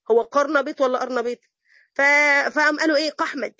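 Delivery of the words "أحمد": قحمد with a hard q in place of the opening a of أحمد; mock the qaf swap in قحمد; mocking mispronunciation. Teacher mocking people who overcorrect Arabic, jokey mispronunciation. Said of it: "بدل ما نقول أحمد".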